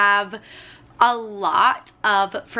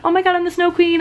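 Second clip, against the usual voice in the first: excited squeal; 8 semitones higher, 4 dB louder, faster than usual. Retold or imitated. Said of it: "I was like".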